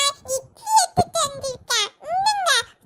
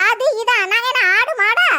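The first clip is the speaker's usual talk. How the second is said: indignant shout; 3 semitones lower, 5 dB louder, faster than usual. Acted. Quarrel continues.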